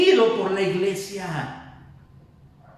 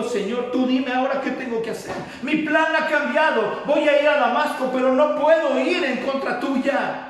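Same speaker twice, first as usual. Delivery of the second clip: earnest pledge; 5 semitones higher than usual. Acted. Saulo pledges himself to the Lord.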